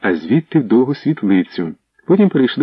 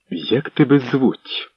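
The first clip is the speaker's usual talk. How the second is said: slow, stern question; 3 semitones higher, much slower than usual. Acted. Princess Anna sternly questioning the servant girl, slow stern voice. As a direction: question her coldly from above. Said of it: "суворо спитала Анна".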